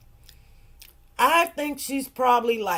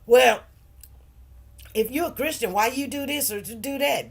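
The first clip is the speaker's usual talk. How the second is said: mocking judgers; 4 dB louder than usual. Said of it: "they like to say".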